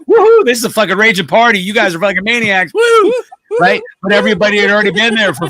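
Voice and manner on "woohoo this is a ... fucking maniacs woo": hammed-up excited partier, whooping high; a clueless concertgoer cheering, mocked and excited. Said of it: "They were just like".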